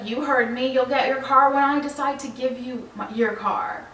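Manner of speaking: firm, mildly aggressive imitation; retold aggressive tone. Delivery man repeating his terms to the customer, mildly aggressive. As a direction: imitate a man standing his ground, emphatic. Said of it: "aggressive tone with me".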